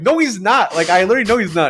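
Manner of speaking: insist, as if replaying a childhood argument; retold indignant denial. Child contradicting a friend about their dog, mock indignant.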